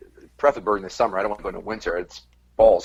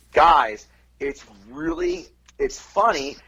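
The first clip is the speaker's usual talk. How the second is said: backhanded compliment; slower than usual. Retold or imitated. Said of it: "his comment was".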